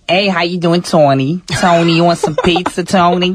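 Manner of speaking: lightly put-on Jersey Italian accent; Italian-American accent. Greeting Tony in an Italian family, mock Italian-American accent. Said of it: "the strong Italians, like".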